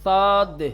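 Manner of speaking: صاد said thick and heavy, with little hiss; heavy emphatic saad. Shown as a demonstration. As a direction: make the s in صاد full and throaty. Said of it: "اسی سین کو تھوڑا سیٹی کم کر دیں اور تھوڑا موٹا".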